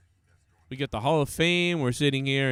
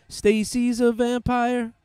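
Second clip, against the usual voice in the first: slow, higher mock disbelief; incredulous question; 6 semitones higher, slower than usual. Real, not acted. Streamer questioning chat's vampire claim in slow disbelief. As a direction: drag it out like you can't believe it.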